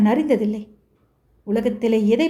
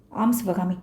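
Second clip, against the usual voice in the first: softer, lower, gently calling her name; tender address; 4 semitones lower, 5 dB quieter than usual. Acted. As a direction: say her name softly, lovingly. Prince softly answers Sivagami. (மென்மையாக, அன்புடன் அழைத்தல்)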